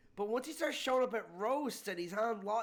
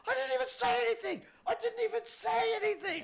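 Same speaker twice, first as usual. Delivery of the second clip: whiny protest; 4 dB louder than usual. Retold or imitated. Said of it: "You, like, like".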